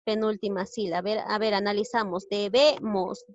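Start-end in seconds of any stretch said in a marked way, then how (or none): 2.3-3.2 Debemos split up, middle BE stressed. Shown as a demonstration. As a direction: punch the BE in Debemos. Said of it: "Lleva la mayor fuerza de voz en la sílaba B".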